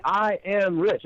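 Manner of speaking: firm, proclaiming I am rich; a speaker declaring rich to a crowd; confident affirmation. Shown as a demonstration. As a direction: lead the room in saying it boldly. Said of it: "have everybody stand up and say".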